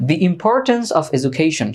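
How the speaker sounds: very slow, spaced English phrase; slow model phrase. Shown as a demonstration. Teacher building a translation for students, slowly. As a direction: lay each word down for the class.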